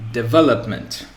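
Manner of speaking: development with the second syllable stressed; development, stressed on ve as a model. Shown as a demonstration. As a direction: say de-VE-lop-ment, leaning on ve. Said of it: "with the stress or accentuation on the v".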